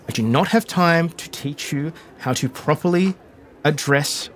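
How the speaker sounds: measured, emphatic exasperated lecture. Acted. Castellan lecturing Mary on swordplay over tea parties, exasperated. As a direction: spell it out firmly to a stubborn pupil. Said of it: "exasperated re-, call and response from Castellan".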